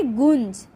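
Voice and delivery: गुंज slowly, the vowel sent through nose and throat; nasalised vowel. Shown as a demonstration. Teacher showing a nose-and-throat sound, nasalised गुंज. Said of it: "नाक और गले से".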